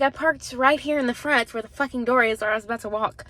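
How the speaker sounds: snappy and fed up, "fucking door" thrown in with attitude; irritated version. Retold or imitated. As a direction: say it the rude way she wished she had. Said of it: "I didn't say it like that".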